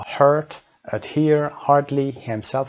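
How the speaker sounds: "hurt، adhere، hardly، himself" each with an audible h; sounded H. Shown as a demonstration. Teacher reviewing the listening exercise, H sounded in "hurt، adhere، hardly، himself". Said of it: "صدای ه رو دارن".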